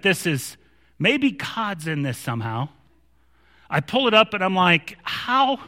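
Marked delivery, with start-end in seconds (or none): 5.0-5.6 high, incredulous one-word question; baffled. Retold or imitated. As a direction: re-enact total disbelief. Re-enacts his bafflement at the find.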